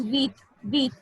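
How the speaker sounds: "with" as French huit, said like "weet"; pronunciation model. Shown as a demonstration. Teacher corrects the word for eight, "with" said "weet". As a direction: say "with" carefully as one syllable, "weet". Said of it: "Eight is".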